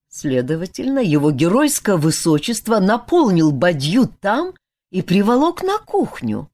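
ordinary delivery

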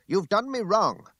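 loud, high, drawn-out protest; impassioned cry. A narrator's reading. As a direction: cry out, losing self-control. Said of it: "I cried".

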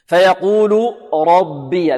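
"ربي" with heavy ر, then light thin ب; careful slow recitation, "ربي" with unthickened ب. Shown as a demonstration. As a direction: slowly recite "ربي", keeping the ب light after the full ر. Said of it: "نرقق الباء هنا".

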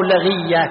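لغية as la-ghiy-ya; third variant of لغية. Shown as a demonstration. Teacher lists three variants, لغية said la-ghiy-ya. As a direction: say لغية with a after the l, i after the gh. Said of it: "ثلاث لغات الآن".

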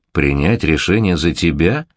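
slow, astonished echo; very surprised. Acted. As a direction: repeat it in disbelief. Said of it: "Крайне удивился Марк Исаевич".

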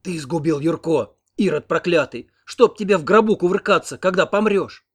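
tearful curse. A narrator's reading. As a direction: curse him with grief and rage. Grandmother curses husband.

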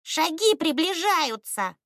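high, drawn-out alarm; alarmed bird warning. A narrator's reading. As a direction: warn them slowly in a high, worried voice. Bird warns of nearing steps. (встревоженно, высоким птичьим голосом)

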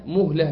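"مهلة" said as muhla; damma on the mim. Shown as a demonstration. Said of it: "الشائع على الألسنة مهلة بضم".

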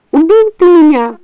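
high, aggrieved fox wail; high-pitched melodramatic complaint. A narrator's reading. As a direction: cry it high as a stricken fox. Struck fox cries out dying.

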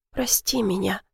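very soft tearful mumble; mumbled. A narrator's reading. Ivy apologizing to Blake, very soft mumble. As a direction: barely breathe the apology. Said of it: "пробормотала я".

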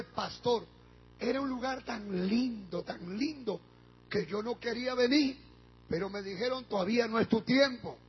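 soft hushed quote. Retold or imitated. Pastor retells mother's words about heaven, hushed. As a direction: hush it, like a secret of heaven.

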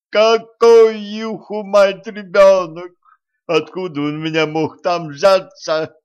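very high, very loud outraged scream. A narrator's reading. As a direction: explode at the doctor in disbelief. Patient screams at the doctor.

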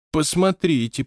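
high, timid mumble; mumbled. A narrator's reading. Scene: short guy pointing at the notebook, timid mumble. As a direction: stammer it out scared. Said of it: "промямлил коротышка".

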